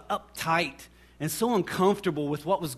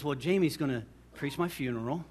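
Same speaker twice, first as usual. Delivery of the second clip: imitating a very calm dad; slightly lower, quieter, composed delivery; calm father; 3 semitones lower, 4 dB quieter than usual. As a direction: answer calmly, as an untroubled father. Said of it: "my dad very calmly".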